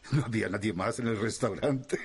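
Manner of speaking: laughing. Acted. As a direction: chuckle as you answer, then laugh. Dima laughs at his own joke.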